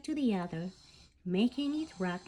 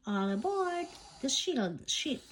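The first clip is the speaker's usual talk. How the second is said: announcing; 4 semitones higher than usual. Acted. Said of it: "she announced".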